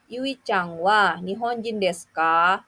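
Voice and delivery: rising question intonation on "desu ka"; rising question tune. Shown as a demonstration. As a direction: end on a rise at ka. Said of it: "jangan lupa untuk menaikkan intonasi pada akhir kalimat".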